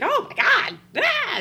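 high, loud squeal and scream; hammed-up panicked shriek; mock-terrified woman. Woman hearing the strange voice on the phone, mock terror.

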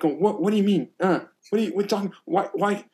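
high, baffled questioning voice; confused student asking why; puzzled student. Retold or imitated. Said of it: "I'll watch some of the students and like".

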